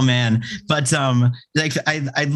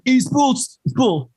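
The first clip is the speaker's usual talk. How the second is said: mock whine; 11 semitones higher, slower than usual. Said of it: "he's like".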